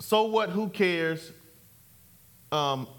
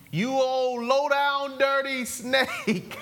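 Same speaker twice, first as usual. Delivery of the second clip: slow, higher, chuckling scorn; Jesus rebuking; 5 semitones higher, slower than usual. Retold or imitated. Preacher voicing Jesus scolding the crowd, slow amused scorn. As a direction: drag out the insult with a laugh. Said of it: "Jesus talked like that".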